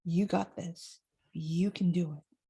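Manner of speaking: quiet supportive wise-woman voice; encouraging inner voice. Pretend. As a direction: soothe and encourage like a kind friend. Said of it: "She is about".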